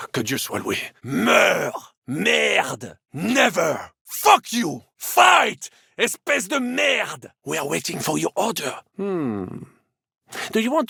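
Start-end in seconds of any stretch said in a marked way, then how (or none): 1.0-7.3 combat barks. Acted. Combat taunts mid-fight.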